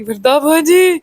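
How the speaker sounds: little sister startled awake, calling out in fright; frightened cry. Retold or imitated. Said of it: "ڈر کے چھلانگ مار کے".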